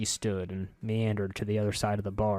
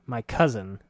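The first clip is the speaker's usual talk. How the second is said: cousin leaned on with weary emphasis; stress on cousin. A narrator's reading. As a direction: press on "cousin" as if stuck with her. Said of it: "he stressed the word".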